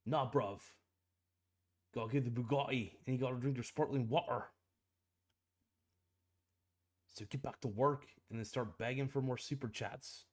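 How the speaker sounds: a lightly put-on British accent, quick and hushed; weird British accent. Producer nagging the streamer about super chats, in a mock British accent. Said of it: "stop with that weird British accent".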